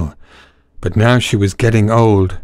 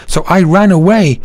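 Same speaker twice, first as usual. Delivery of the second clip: high, wailing cat; miserable cat; 7 semitones higher than usual. Acted. Cat telling donkey she fled, high wail. Cat tells her escape.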